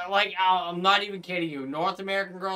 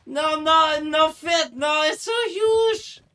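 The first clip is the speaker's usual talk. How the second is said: high wailing cry of no; howling at the screen; anguished shout; 10 semitones higher, 5 dB louder, slower than usual. Acted. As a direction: wail it out, drawn out and loud. Keeps yelling in-game.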